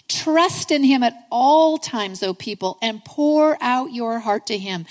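slow, emphatic reading of a psalm; scripture reading. Acted. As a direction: proclaim the verse with drawn-out key words.

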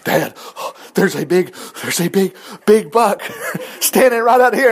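mild imitation of a daughter spotting a buck; excited daughter. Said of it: "she calls me on the phone about out of breath".

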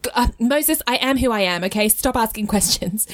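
mildly exasperated, petulant retort; a touch of huffy impatience. Acted. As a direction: brush them off with impatient irritation. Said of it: "almost like God is being petulant".

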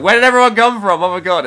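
very high, loud startled yell; mock astonished outcry. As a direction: act out comic shock at a sudden crowd. Acts character startled by sudden crowd.

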